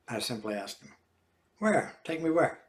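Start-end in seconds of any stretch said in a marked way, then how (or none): 1.6-2.6 surprised. Acted. Surprised question.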